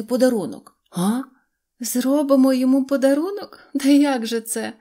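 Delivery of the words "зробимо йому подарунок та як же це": higher, louder incredulous echo of "Зробимо"; mocking laughter. A narrator's reading. Dolls laughing at the dog's idea, higher and louder. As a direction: repeat "Зробимо" rising and scoffing like giggling dolls. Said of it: "зареготали ляльки".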